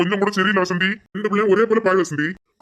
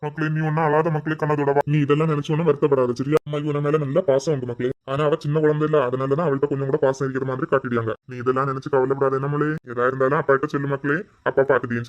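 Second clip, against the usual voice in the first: comforting father; 4 semitones lower than usual. Acted. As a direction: soothe her gently. Father comforts crying daughter. (அழும் மகளை தேற்றும் அப்பா)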